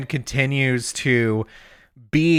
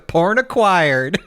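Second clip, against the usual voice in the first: mock triumph; slower than usual. Acts Denji grabbing the magazine.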